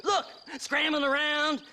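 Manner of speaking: half-mad rant. Acted. Half insane prospector rants.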